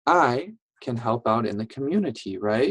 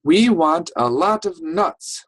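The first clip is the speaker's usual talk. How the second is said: a lightly voiced eager mama squirrel, a bit higher and louder; 5 semitones higher, 5 dB louder than usual. Teacher reading to kids as Mama Squirrel, lightly voiced. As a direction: read it as the hopeful mother squirrel.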